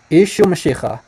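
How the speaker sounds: "Ishu Mashiach" as ee-shoo muh-shee-kha; shown pronunciation. Shown as a demonstration. Teacher repeating the phrase from the recording, demonstrated pronunciation. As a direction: sound out "Ishu Mashiach" with a throaty kh. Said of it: "Let's slow it down".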